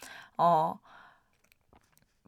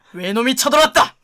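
proclaiming loudly; 4 semitones higher, 9 dB louder than usual. Pretend. Wordplay punchline proclaimed.

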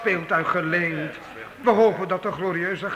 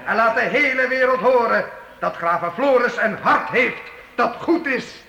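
rousing toast; 4 semitones higher than usual. Acted. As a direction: lift the hall with praise. Minstrel proclaims praise of count. (jubelende heildronk op de graaf)

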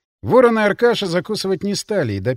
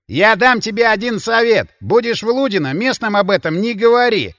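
snorting laugh; 6 semitones higher, 5 dB louder than usual. Acted. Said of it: "прыснул со смеху Аркаша".

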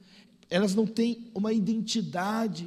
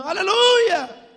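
high, drawn-out wailed praise; fervent church sister; 10 semitones higher, 12 dB louder, much slower than usual. Retold or imitated. Church sister answers the pastor, exaggerated loud fervour. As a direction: stretch the praise into a loud cry. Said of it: "A irmã".

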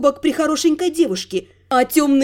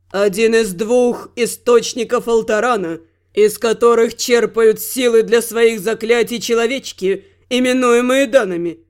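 low, lofty god voice; dark god voice; 3 semitones lower than usual. Acted. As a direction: lecture like an ancient god.

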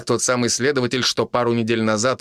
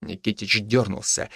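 usual speaking voice

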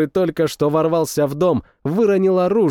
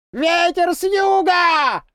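high, slow, drawn-out call from afar; far-off war cry, stretched long; distant shout; slower than usual. A narrator's reading. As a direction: call it out across the battlefield. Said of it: "кричали где-то уже намного ближе".

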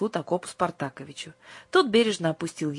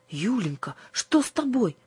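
frightened; 6 semitones higher than usual. A narrator's reading. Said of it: "испугалась Аннушка".

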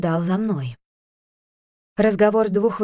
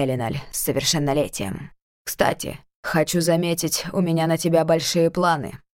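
lightly lowered voice of a cold, imperious uncle; a hint of a haughty ruler, measured; stern elven lord; 6 semitones lower than usual. Uncle lord addresses niece.

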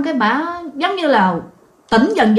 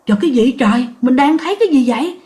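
startled; faster than usual. Retold or imitated. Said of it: "chị hết hồn".

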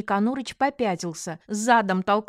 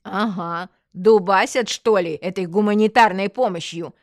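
loud, biting retort; mock the question with emphatic scorn; sarcastic; 6 dB louder than usual. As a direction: caustic jab. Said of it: "съязвила Татьяна Павловна".

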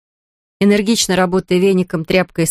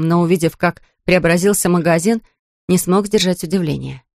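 ordinary delivery, nothing marked

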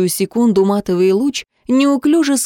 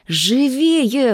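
a mild, higher plea; pleading; 4 semitones higher than usual. A narrator's reading. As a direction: beg him to hurry, lightly voiced. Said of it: "взмолился Фил".

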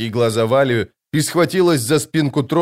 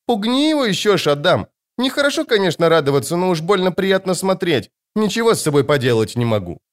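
put-on high, bright child's voice; a small girl pleading gleefully; high child voice asking for more cruelty; little girl's voice; 7 semitones higher than usual. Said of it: "попросила".

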